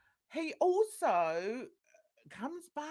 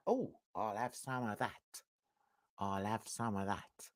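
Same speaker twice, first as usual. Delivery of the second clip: lustful gay clubbers; 14 semitones lower, 7 dB quieter than usual. Retold or imitated. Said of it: "they're like".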